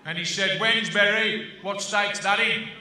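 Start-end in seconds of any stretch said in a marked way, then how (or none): 0.6-1.6 put-on slow American accent on WEDNESBURY; American general. American general puzzling over WEDNESBURY, slow American accent. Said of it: "fat American general, you know, the type". 1.6-2.7 put-on slow American general's accent. American general asking the visitor about his hometown, slow American accent. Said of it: "fat American general, you know, the type".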